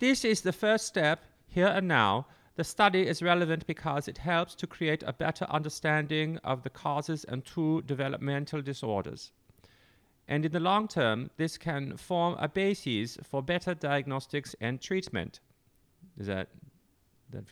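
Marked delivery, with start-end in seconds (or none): 0.0-15.4 higher-pitched mock Dutch accent. Reading a researcher's quote aloud: Dutch accent reading Anders Borglum. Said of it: "in a uh, Dutch accent".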